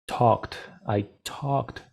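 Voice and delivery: "talked" ending in a crisp KT; final T in talked. Shown as a demonstration. Teacher modelling the past of talk, crisp final T. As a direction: say "talked" as one syllable, "tokt". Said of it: "en el pasado de talk sería".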